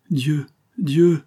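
astonished cry. A narrator's reading. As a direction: cry out in sudden recognition. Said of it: "s'écria Marie".

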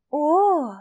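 high, drawn-out knowing oh; a sly, meaningful exclamation. Acted. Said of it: "глубокомысленно выдала Айрин".

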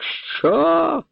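a sharp, very high outraged cry; furious. Acted. Count hears his dogs were killed, furious high cry. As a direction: explode with rage at the news. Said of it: "Люті графської нема межі".

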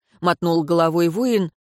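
ordinary delivery, nothing marked

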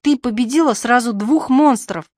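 put-on loud high cheer from a little boy; boy shouting hooray, loud and high. A narrator's reading. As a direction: cheer her on like a thrilled child. Boy cheering over victory.

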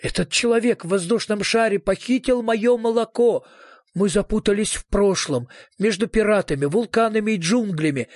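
mildly melodramatic despair. Acted. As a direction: wail mildly over a hopeless fate. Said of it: "Меня захлёстывали тоска и отчаяние".

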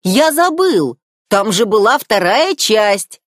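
high, loud squawk of sudden memory; flustered seagull. A narrator's reading. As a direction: blurt it out like a scatterbrained bird.

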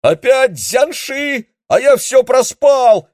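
визгливый, очень высокий громкий вопль; завопи в панике. A narrator's reading. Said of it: "завопил он". (Линь вопит в панике, визгливо и громко)

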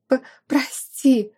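slow, stammering "П-, прости!" with a catch on the П; stammered plea for forgiveness; stuttering apology. A narrator's reading. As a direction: trip over the first sound of "прости". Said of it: "Заикаясь".

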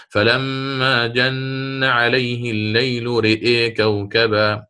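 slow, chanted Quranic recitation. Shown as a demonstration. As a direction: draw out each vowel in tajweed chant. Teacher recites a Quran verse. (تلاوة مرتلة بطيئة)

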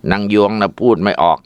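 plain reading voice

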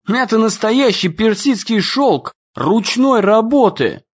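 high, whiny complaint; whining. A narrator's reading. Ian shows his torn trousers, whining high. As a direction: whine about the ruined trousers. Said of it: "заныл Иэн".

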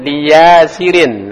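Lia Sirin drawn out slowly, tanwin nun sounded; teacher models Lia Sirin slowly with the final nun. Shown as a demonstration. Teacher models the tanwin reading for a student, slow and clear.

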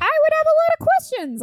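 very high, loud protest; incredulous exclamation. Real, not acted. Host reacting to the family, loudly incredulous. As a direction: burst out in comic disbelief.

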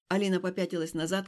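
ordinary delivery, nothing marked

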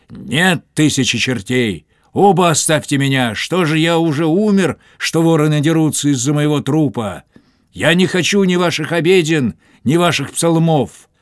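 high, loud furious refusal; angry outburst. A narrator's reading. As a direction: drive the priests off in a rage. Dying captain drives both priests away. (гневный громкий высокий крик)

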